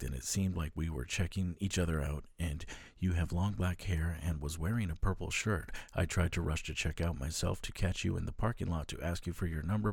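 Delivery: calmer reread with proper pauses; read with punctuation. Shown as a demonstration. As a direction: pause at every comma this time. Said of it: "I will read it more punctuated".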